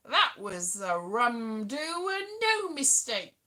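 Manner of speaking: put-on a light touch of old-film Cockney. Joking about the 1930s, a light Cockney film voice. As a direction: toss off an Ealing comedy Cockney line. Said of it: "I'm a Cockney chappie".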